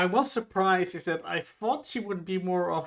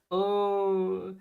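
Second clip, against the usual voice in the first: cutesy voice; 4 semitones higher, 4 dB quieter than usual. Retold or imitated. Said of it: "Cutesy, she says, he has a cutesy voice".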